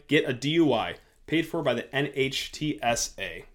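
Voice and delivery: measured public-safety announcement read; steady, instructive sponsor read. Acted. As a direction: read it as a scripted radio spot. Reads a paid safety ad.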